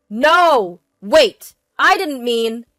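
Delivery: loud, high, urgent cries; panicked protest. A narrator's reading. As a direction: beg her to wait. Husband panics, is cut off.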